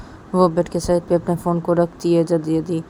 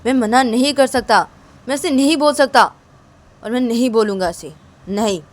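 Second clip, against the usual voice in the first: raised, louder, scolding voice; mock angry refusal; 5 semitones higher, 4 dB louder than usual. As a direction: scold her sister sharply, half acted. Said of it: "तभी तिशा बोलती कि क्या है".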